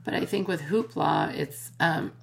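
cracking, hoarse voice. Real, not acted. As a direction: talk through a cracking voice. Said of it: "my voice is cracking".

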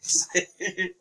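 slow, breathy near-whisper; mock somber. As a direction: hush it with exaggerated gravity. Repeats the somber announcer impression.

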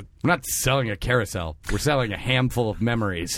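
low ad-man monologue voice; John Hamm. Acted. John Hamm giving the carousel monologue, low and earnest. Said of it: "it's my John Hamm impression".

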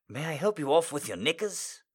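usual speaking voice

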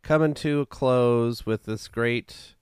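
slow, hammed-up attempt at a Scottish accent; clumsy, drawn-out stab at a Scottish host voice; failed Scottish accent. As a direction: try a Scottish accent and keep losing it. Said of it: "like, a Scottish".

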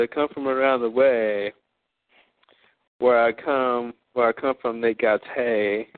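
slow drawled rhyme, another person's voice; channeled persona. Retold or imitated. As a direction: drawl the rhyme like someone else entirely. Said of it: "I said".

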